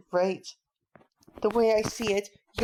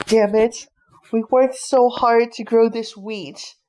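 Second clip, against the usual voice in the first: louder furious curse; angry outburst; 7 dB louder than usual. Acted. Father curses furiously over the destroyed wheat. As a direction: let the rage burst out.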